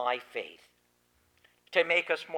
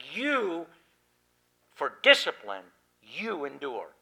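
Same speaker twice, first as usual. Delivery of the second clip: You raised, then a firm falling command; literal emphatic translation. Shown as a demonstration. Preacher giving the literal translation, firmly. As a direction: lay out each word as a command. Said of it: "that's a literal translation of it".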